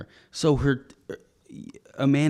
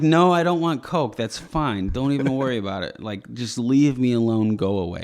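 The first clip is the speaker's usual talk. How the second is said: laughing refusal; 2 semitones higher, 5 dB louder than usual. Retold or imitated.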